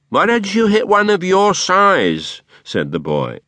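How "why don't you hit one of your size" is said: put-on much higher, louder boy voice; boy taunting the dwarf to pick on his own size; cheeky boy. A narrator's reading. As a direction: throw back a cheeky challenge. Boy retorts to Quilp.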